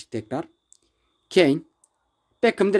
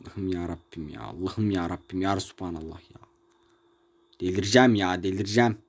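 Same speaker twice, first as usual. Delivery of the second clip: despairing groan; 12 semitones lower, 6 dB quieter than usual. Real, not acted. Despairing over the game.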